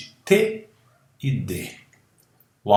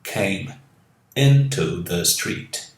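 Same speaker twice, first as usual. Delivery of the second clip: slow model phrase; 3 semitones lower, slower than usual. Shown as a demonstration. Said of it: "Veio pra rua".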